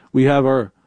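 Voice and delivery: tripping over the words; halting, stuck on uh; stuttering. Real, not acted. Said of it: "I don't know why I'm stuttering tonight".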